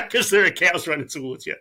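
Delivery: laughing through the words. Real, not acted. Recalling cows charging at her, laughing. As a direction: chuckle it out, amused at yourself.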